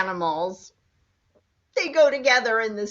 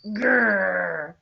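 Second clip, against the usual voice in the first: bear growl; 3 semitones lower, 4 dB louder than usual. Shown as a demonstration. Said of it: "what does a bear say".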